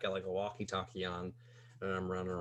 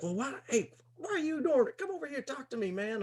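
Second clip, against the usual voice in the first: put-on much higher, sloppy drunk stranger; drunk guy voice. Wasted stranger complimenting narrator's hat, high drunk voice. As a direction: play the wasted guy at the bar. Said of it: "and he's like".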